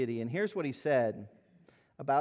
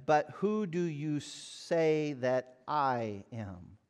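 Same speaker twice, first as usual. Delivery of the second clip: slow, solemn question with weight on who; Christ asking slowly; slower than usual. Retold or imitated. Christ presses his disciples, slow and grave. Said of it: "And he said to them".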